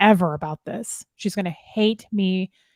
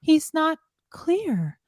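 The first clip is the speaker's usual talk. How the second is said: mock dismissive; 8 semitones higher, slower than usual. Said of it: "she's like".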